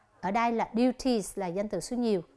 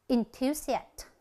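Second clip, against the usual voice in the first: "enthusiast" slowly, stressed on THU; second-syllable stress; much slower than usual. Shown as a demonstration. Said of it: "nhấn âm thứ nhì". (nhấn âm thứ nhì của "enthusiast")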